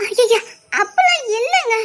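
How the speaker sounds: wailing protest; crying. Acted. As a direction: reassure him through sobs. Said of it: "வேற எதுக்கும் அழுதா".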